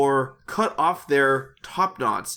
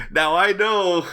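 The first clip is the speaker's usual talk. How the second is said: mild exclamation. Acted. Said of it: "exclaimed Uncle Iroh".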